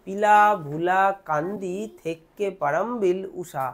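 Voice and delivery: lightly acted pupil labouring through a long name; mildly mock a student reciting piece by piece; student stalling the teacher. Student asking sir to wait, lightly acted laboured recital. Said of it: "তখন তুমি বলবা".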